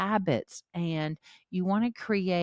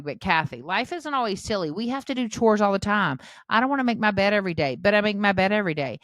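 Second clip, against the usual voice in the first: fast, louder mock complaint from a tired parent; whiny viewer objection; 2 semitones higher, 4 dB louder, faster than usual. Mom mimics a viewer protesting daily chores, fast and loud. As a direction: rattle it off like a fed-up viewer. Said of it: "you might be sitting there going".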